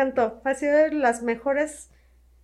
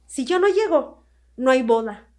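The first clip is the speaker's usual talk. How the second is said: firm bride; 7 dB louder, slower than usual. Retold or imitated. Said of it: "me dice".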